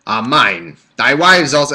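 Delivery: rough imitation of a British reader; attempted British accent. Shown as a demonstration. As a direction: try a British accent, badly. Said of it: "I can't do a British".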